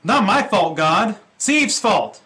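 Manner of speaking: loud, whiny blame-shifting protest; Adam pleading his case, loud and defensive. Retold or imitated. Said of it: "Adam's saying".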